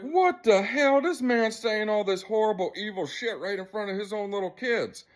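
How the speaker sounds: high-pitched, appalled re-enactment; retold outrage. Retells outrage at man's words.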